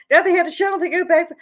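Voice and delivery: laughing at the absurdity; incredulous. Real, not acted. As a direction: scoff in disbelief.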